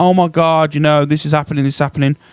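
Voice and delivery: mock crying. Mocking viewers who were upset on the app yesterday: imitating people crying. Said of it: "you were all crying around the app going".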